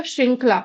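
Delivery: श्रृंखला with री on श, no extra रा; correct pronunciation. Shown as a demonstration. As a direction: say श्रृं as श plus री vowel. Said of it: "तो ये क्या होगा?". (श्रृंखला का सही उच्चारण)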